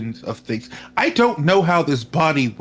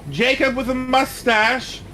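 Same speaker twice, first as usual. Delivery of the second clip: calling out; 10 semitones higher than usual. Acted. Calling out to spirits.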